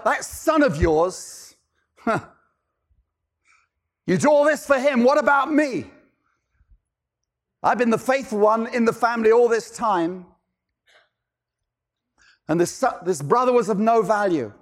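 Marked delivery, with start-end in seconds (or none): 0.0-10.3 jealous complaint. Retold or imitated. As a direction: let the grievance boil over. Older brother's jealous complaint.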